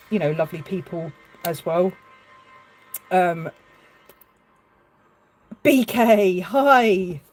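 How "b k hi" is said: higher and louder, delighted hello; light up as a friend walks in; excited greeting. Real, not acted. Greeting a viewer joining her live walk, excited and higher.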